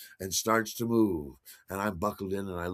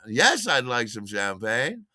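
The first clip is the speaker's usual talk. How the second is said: slow, prim yes to the stewardess; the proper way to accept champagne; polite answer; 2 semitones higher, 4 dB louder, slower than usual. Shown as a demonstration. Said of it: "You understand?".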